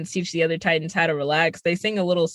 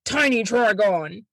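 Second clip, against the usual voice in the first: mock villain voice; slower than usual. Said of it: "he's like".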